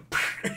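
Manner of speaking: quick puffed shot noise; imitated gunshot. Doctor shoots the mother, mouth-made gun noise. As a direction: blow a short burst through the lips.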